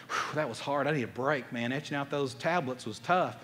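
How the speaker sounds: low, worn-out sigh of effort; mock out-of-breath relief. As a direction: puff out and play exhausted. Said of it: "God was out of breath".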